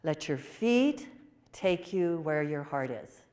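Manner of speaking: tender slow repeat. Retold or imitated. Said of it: "She said".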